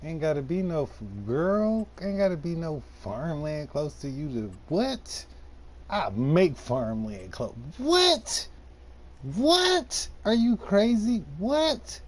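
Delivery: shrieking disbelief, comic and fast; Kevin Hart voice. Retold or imitated. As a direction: Kevin Hart impression, outraged. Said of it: "my Kevin Hart voice".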